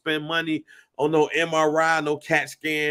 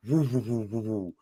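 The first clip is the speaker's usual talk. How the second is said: repeated "woo", falling away softer; wobbling noise; 5 semitones lower, 5 dB quieter than usual. Retold or imitated. Showing his friend a torn muscle's wobble, repeated woos. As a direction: imitate loose muscle wobbling in soft woos. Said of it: "just wobble".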